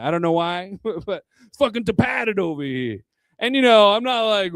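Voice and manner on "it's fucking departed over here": hammy Boston accent with dropped r. Shown as a demonstration. Comedian showing why it's fun in a Boston accent. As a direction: say it like a Boston local. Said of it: "to say in a Boston accent".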